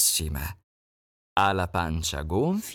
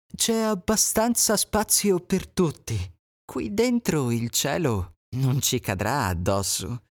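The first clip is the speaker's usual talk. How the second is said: higher, honeyed fox; sly welcome; 4 semitones higher than usual. Acted. Fox inviting animals into her cave, honeyed. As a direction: welcome them in with false kindness.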